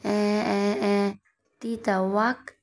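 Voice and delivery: whiny fake crying then a gag; wailing after the bitter juice; mock wailing. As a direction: wail like a sulky child, then retch. Forced to drink bitter juice.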